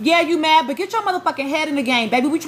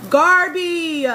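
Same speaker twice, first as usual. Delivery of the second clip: fed-up call; 4 semitones higher, 3 dB louder than usual. Real, not acted. Calls contestant's name louder, fed up.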